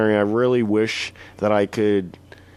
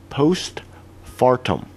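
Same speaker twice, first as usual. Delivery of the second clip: postfartum stretched very slowly; drawn-out word; much slower than usual. Shown as a demonstration. Announcing the slang word to Brian, dragged out very slowly. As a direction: draw out postfartum syllable by syllable. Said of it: "First one is gonna be called".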